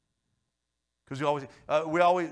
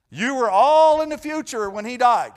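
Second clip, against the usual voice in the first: loud preaching; 7 semitones higher, 12 dB louder than usual. Acted. Preaching climax.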